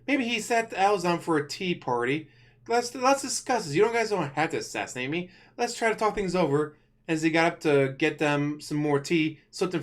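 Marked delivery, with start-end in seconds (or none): 2.7-6.8 high, panicked pleading to the assassins; pleading king. Retold or imitated. The king begs the assassins to talk it over, high and panicked. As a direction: beg them not to kill you.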